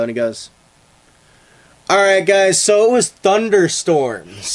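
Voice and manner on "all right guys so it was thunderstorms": louder, slow, brushing it off; dismissive sergeant. Acted. Air Force sergeant dismissing the witnesses, louder and slow. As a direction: wrap it up like case closed.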